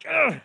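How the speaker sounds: short throaty grunt of disgust; disgusted ugh. Acted. Preacher recoiling from peppery Christians, disgusted grunt. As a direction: growl out a mock-revolted ugh.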